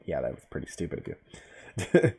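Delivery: slow, low sarcastic jab. Real, not acted. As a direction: drag it out mockingly. Mocking aside to the character.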